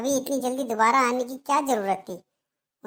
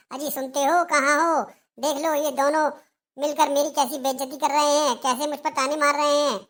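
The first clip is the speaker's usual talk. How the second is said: higher, complaining call to the husband; 4 semitones higher than usual. Acted. Mother-in-law calling her husband to complain, raised and whiny. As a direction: wail for him to come and see.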